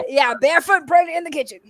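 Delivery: laughing through "Yeah, barefoot". Real, not acted. Laughing at the sexist joke.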